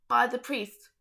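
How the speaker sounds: quick unvoiced whisper to self; whispered aside. Real, not acted. Reader whispers a note to herself while reading aloud, whispering. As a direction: breathe it out as a side note.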